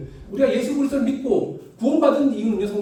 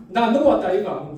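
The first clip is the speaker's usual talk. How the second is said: Gyeongsang dialect; 4 dB louder than usual. Retold or imitated. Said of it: "거기 사투리로 조금 말씀드리면".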